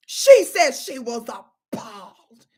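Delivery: low, drawn-out words; slow mocking delivery. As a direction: drag it out with heavy sarcasm. Mocking the chief's statement.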